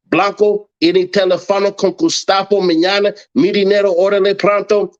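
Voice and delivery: fast show-off Spanish, lightly played. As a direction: rattle off loose Spanish to prove you speak it. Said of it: "rattles off Spanish to prove it".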